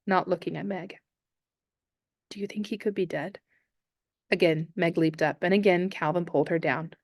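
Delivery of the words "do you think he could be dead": dry, softer, no feeling; dry, unemotional. Acted. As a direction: ask it flat and detached. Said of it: "spoke in a dry, unemotional voice".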